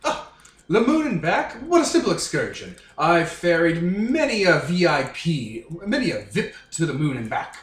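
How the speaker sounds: grand, swooping fake-British boast; Skylynx. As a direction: play a snooty Brit, badly faked and pleased with himself. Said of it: "doing a terrible impression of a British person".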